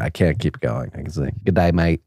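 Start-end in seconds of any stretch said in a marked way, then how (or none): 1.4-2.0 attempted Aussie greeting; Australian accent. Shown as a demonstration. Host showing where the accent starts, Australian accent. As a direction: put on a shaky-at-best Australian accent. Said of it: "it was my best Australian".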